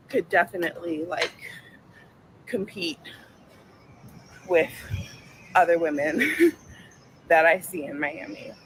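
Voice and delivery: out of breath from the stairs; talking between breaths after climbing; winded. Real, not acted. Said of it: "let me catch my breath because the stairs just took me out".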